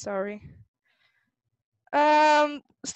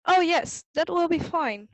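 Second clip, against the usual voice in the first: happy Miffy; 5 semitones higher than usual. Acted. Miffy answering father happily.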